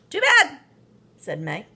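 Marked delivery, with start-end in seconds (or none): 0.1-0.6 high, loud mocking retort; taunting. A narrator's reading. May brushing off her brother, high and taunting. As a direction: throw it back at him, unkind.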